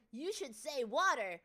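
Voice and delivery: pushy American imitation. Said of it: "no, they're like".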